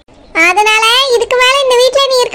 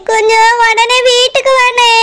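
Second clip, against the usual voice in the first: crying. Acted. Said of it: "எதுக்குமா அழுதுட்டு இருக்க?".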